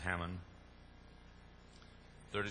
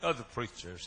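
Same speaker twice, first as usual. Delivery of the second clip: much higher, louder plea; high exasperated shout; 9 semitones higher, 12 dB louder than usual. Retold or imitated. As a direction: yell it at the preacher in frustration. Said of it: "He said".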